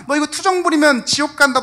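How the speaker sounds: loud, high threat with 부리면 hit hard; 부리면 punched loud and falling, a scolding threat; harsh warning. Retold or imitated. Rebuking a suffering friend.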